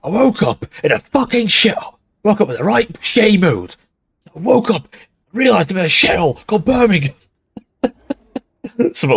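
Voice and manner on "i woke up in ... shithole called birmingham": higher, hammed-up Brummie rant; put-on Birmingham voice, pitched up; Birmingham accent impression. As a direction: grumble theatrically in mock Brummie. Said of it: "Do the Birmingham law accurate Nurgle worship".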